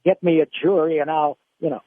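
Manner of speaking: a hint of the Brain, grand and grumbling; pompous know-it-all refusing the note; lightly voiced Brain rebuking Pinky. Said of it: "And then the Brain says".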